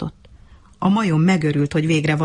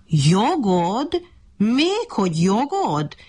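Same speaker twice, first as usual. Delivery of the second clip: scoffing monkey; 5 semitones higher, much slower than usual. Acted.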